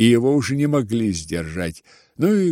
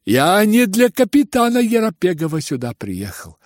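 mocking, high-pitched; 10 semitones higher, 4 dB louder than usual. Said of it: "тем же насмешливым тоном".

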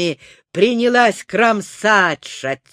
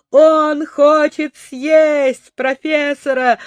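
high, slow, alarmed clown voice; horrified cry; 6 semitones higher, 4 dB louder, slower than usual. A narrator's reading. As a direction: gasp it out in horror. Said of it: "в ужасе закричал клоун Кармини". (в ужасе, высоким голосом)

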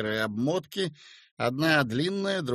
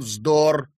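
louder stern dismissal; 2 semitones higher, 8 dB louder than usual. A narrator's reading. Yura dismissing the landlady's fears, stern. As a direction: shut it down sternly. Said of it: "строго сказал Юра".

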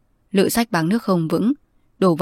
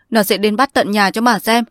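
raised, louder tearful warning, leaning on 'bắt'; crying, voice strained and raised; 4 semitones higher, 4 dB louder than usual. Acted. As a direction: choke out the threat through tears. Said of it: "John khóc rừng rức".

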